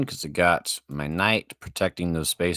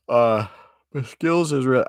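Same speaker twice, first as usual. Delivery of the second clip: excited squeal; 7 semitones higher, 6 dB louder than usual. Real, not acted.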